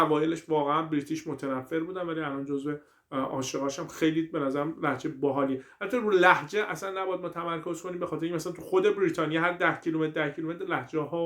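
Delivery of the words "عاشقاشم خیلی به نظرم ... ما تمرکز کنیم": ordinary talk, nothing marked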